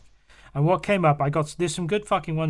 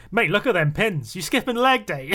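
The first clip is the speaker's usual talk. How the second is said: imitated brotherly ribbing, raised pitch; higher-pitched mock heckle; mocking banter; 5 semitones higher, 3 dB louder than usual. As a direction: tease him, close to laughing. Imitating brothers teasing him online.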